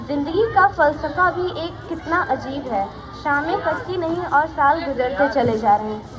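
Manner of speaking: measured verse, phrase by phrase; poem recitation. Acted. (कविता पाठ के अंदाज़ में)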